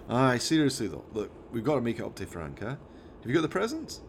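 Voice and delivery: lightly voiced Scottish mate telling off his chimp; a hint of a Scottish lad; Jones, exasperated driver.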